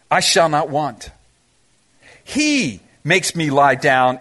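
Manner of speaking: psalm read reverently. Acted. Reading David's psalm slowly.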